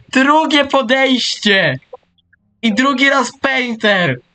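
high, slow, drawn-out excitement; excited exclaim. Real, not acted. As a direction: stretch each word in amazement. Second rare monster, exclaims.

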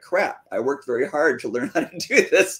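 laughing through the words, slowing at the end; rueful chuckle while speaking. Retold or imitated. Wife laughing at wasted effort.

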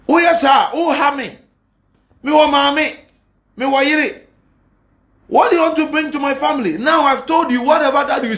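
a pastor firing back at online critics, worked up; heated rant. Real, not acted. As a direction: tear into your critics from the pulpit.

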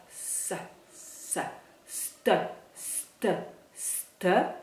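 S drawn out, then st, st, st; hissed S drill. Shown as a demonstration. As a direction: hiss the S before the t. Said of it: "the S is a S".

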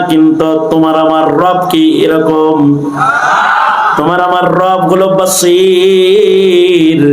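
slow, drawn-out sermon cadence; solemn preaching. Acted. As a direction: preach it slowly and with awe. Slow preaching on God's hearing. (ধীর, গম্ভীর ওয়াজের সুর)

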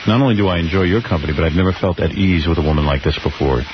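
a hint of a smooth suitor; sweet talk. Shown as a demonstration. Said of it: "A little sweet talk".

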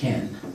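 Can with a short clear e vowel, kæn not kɑːn; teacher models the short vowel in Can. Shown as a demonstration. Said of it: "ای کوتاه".

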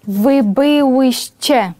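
slow, careful Polish model of byłyście; slow model pronunciation. Shown as a demonstration. Teacher demonstrating the form to the class, slow. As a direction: drag it out so students can copy. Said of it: "буде за такою ж самою схемою".

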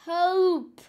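loud, high cry for help; hammed-up scream for help; panicked scream. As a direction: yell as if drowning. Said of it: "he screamed".

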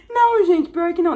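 high, loud amused protest; laughing denial. Real, not acted. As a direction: deny it while cracking up. Laughs at being called grumpy.

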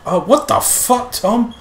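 high, drawn-out what the fuck; genuinely thrown to see him; startled cry at Tom; shocked surprise. Real, not acted.

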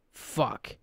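whispered curse; frustrated whisper. Acted. Frustrated outburst after nightmare.

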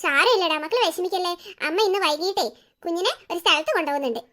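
low-pitched, gentle consoling; soothing. Acted. Mother consoling her upset little son, soothing. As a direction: comfort a hurt child tenderly.

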